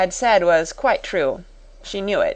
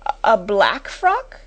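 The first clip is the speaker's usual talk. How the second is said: slow, hesitant, bewildered question; flustered stammer; 3 semitones higher than usual. A narrator's reading. Timid sister echoing the schoolmistress, stammering. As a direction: stumble on the first word, questioning. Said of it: "Miss Amelia stammered again".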